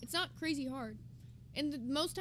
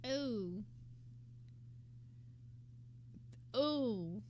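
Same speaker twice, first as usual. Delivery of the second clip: drawn-out, lowered cringe groan; cringing "ooh"; 5 semitones lower, 6 dB quieter than usual. Real, not acted. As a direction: let out a long, uncomfortable "ooh". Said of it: "That does make me cringe a little".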